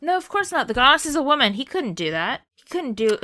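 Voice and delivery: high, mock-serious sarcasm; sarcastic. Mock agreement about misogynist villain.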